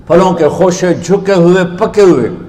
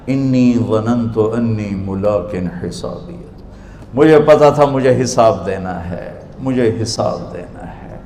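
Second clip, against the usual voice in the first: humble answer; 3 semitones lower than usual. Acted. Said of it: "وہ آگے کہے گی".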